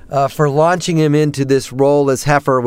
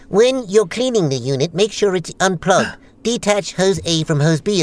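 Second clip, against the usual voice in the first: early, broad Australian character reading a manual; Australian accent; 3 semitones higher than usual. Acted. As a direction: read instructions in a put-on Australian accent. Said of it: "It was actually a lot more Australian".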